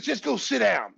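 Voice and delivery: imitated curt coach's scolding; coach yelling. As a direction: send the player to the bench. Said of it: "Phil's yelling at me".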